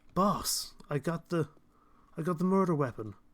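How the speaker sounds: generic Los Angeles cop accent. Speaker acts out a rookie detective finding a weapon in a bin, generic Los Angeles cop accent. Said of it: "my generic like Los Angeles baddie, rookie detective cop accent".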